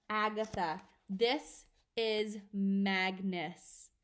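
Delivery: slow, drawn-out spectral voice; ghostly message. Acted. The dead father's message to Agatha, slow and eerie. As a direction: spell it out like a ghost.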